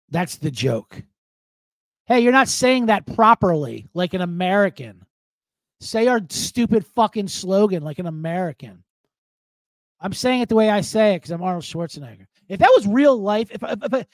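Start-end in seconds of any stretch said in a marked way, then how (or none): 2.1-8.8 lightly voiced nagging director; imitated commercial director. Director correcting Arnold's accent on set, mildly mocked nagging. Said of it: "commercial director tried to correct". 10.0-12.3 light mock Austrian accent, quick; Schwarzenegger. Arnold answering the director about his speech, light mock Austrian accent. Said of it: "making fun of his accent".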